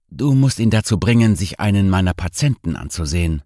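a hint of a tipsy, teasing host; tipsy nerve doctor. Same doctor character continues.

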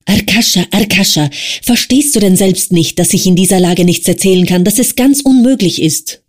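frail man crying out while pinned down; mild cry. Acted. Wasja crying out under his friend's weight, mild narrated cry. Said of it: "schrie der schwächliche Wasja".

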